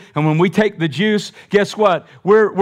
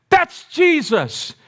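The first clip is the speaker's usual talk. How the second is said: excited recognition; 10 semitones higher, slower than usual. Acted. Peter recognizing Jesus.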